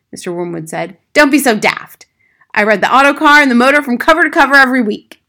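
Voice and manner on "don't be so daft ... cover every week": loud, high, quick boasting; indignant father. Acted. Father defending his reading to teacher, indignant. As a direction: scoff loudly and rattle it off.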